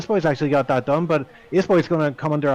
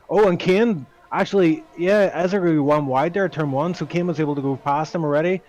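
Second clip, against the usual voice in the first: excited play-by-play; 2 semitones higher than usual. Real, not acted. Live overtake called in race commentary.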